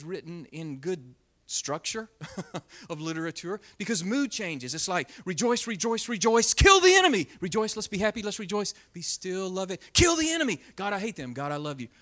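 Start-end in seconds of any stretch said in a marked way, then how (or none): 5.3-11.9 swinging from joy to rage; a hammed-up psalmist flipping moods; mock psalmist. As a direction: act out rejoicing then raging at the enemy. Mimicking a psalmist's mood swings.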